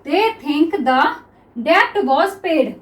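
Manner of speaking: words spaced out very slowly; slow dictation read. Shown as a demonstration. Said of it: "अब next देखिए".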